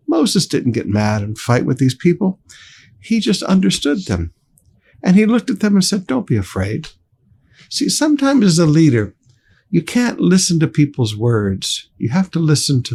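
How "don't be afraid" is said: lower, softer Don't be afraid; calm reassurance. Acted. Moses answering the scared crowd, soft calm reassurance. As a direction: say it gently to settle them. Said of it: "So he calms them down".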